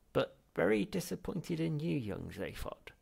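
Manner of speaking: put-on high, loud old man's reproach; disappointed elder. Ghost reproaching his heir, high and loud. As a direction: let the disappointment sting.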